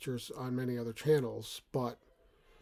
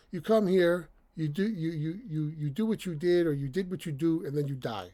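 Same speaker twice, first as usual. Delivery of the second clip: comical TV dad line, higher and louder; Frank Barone impression; 4 semitones higher, 5 dB louder than usual. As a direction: ham up the sitcom father. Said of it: "That's the way he says it".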